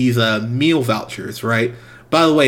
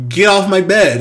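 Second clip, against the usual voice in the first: mock angry snap; 7 semitones higher, 5 dB louder than usual. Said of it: "I'm like".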